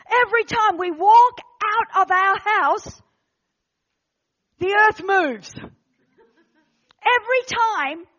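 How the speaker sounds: spaced-out proclamation with long pauses; emphatic preaching. Real, not acted. Preacher stirring the town's believers, emphatic. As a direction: declare it in short, weighty phrases.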